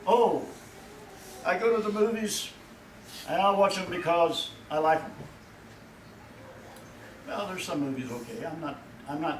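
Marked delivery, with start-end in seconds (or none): 0.0-5.1 raised, airy mock of a moviegoer; mocking worldly churchgoer. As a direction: lampoon the casual believer.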